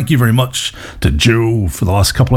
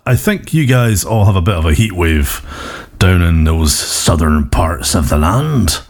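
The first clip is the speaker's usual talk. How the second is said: put-on Cornish accent; 3 semitones lower than usual. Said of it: "I'm doing a Cornish accent for Wales".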